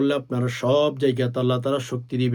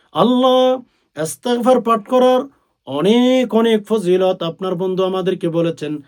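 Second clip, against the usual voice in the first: fervent prayer; 6 semitones higher, 6 dB louder than usual. Acted. Preacher voices prayer to Allah.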